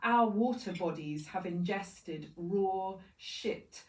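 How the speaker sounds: measured poetry recital with deliberate pauses; poem reading. Acted. Poet speaks as the river to industrialized peoples, measured poem reading. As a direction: read it as a poem, weighing each image and list. Reads eco poem aloud.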